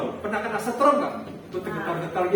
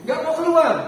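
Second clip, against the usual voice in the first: higher, louder burst of exasperation; frustrated exclamation; exasperated outburst; 8 semitones higher, 7 dB louder than usual. Real, not acted. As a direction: blurt it out, fed up. Frustrated telling of failed exorcism.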